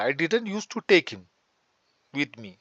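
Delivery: slowly, each word separated; slow dictation. Shown as a demonstration. Teacher slowly translates the Hindi sentence for learners, deliberate. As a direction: model it slowly for the class. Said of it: "मैं उसको नहीं ले जाता था".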